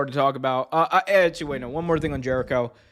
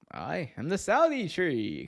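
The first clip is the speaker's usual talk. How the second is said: put-on slow, swooping, softer Saudi accent; drawn-out mock Saudi accent, pitched up; mock Saudi mascot; 4 semitones higher, 5 dB quieter, slower than usual. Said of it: "Saudi needs a new wrestling mascot".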